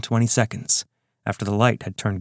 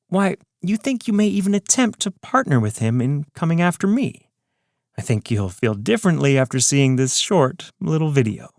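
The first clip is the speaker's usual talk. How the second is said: higher, taunting villain, unhurried; smug villain voice; 6 semitones higher than usual. Acted. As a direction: gloat like a calm mastermind. Ron's parting taunt.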